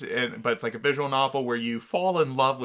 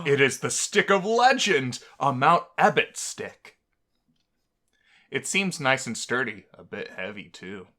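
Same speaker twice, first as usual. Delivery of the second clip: dramatic story narration. A narrator's reading. Reading the game's text to his friend, playfully grand narration. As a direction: narrate the legend with mock grandeur.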